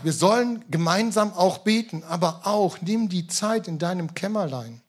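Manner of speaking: ordinary delivery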